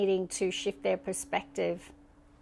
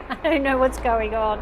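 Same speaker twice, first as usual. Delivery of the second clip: laughing; 3 semitones higher, 9 dB louder than usual. Real, not acted. Laughing at helicopter noise.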